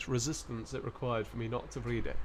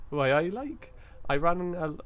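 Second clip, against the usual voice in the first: put-on higher, louder stab at a Geordie accent; attempted Geordie accent; 4 semitones higher, 4 dB louder than usual. Streamer reading a viewer's joke on request, attempted Geordie accent. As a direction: have a go at Geordie, sliding off toward Welsh. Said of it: "put on your Geordie voice now".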